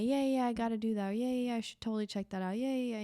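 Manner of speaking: fast breezy brush-off yeses; mock empty yeses. She mocks people who always promise to check things out, with fast breezy yeses. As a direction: rattle off hollow agreement. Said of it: "When you always say".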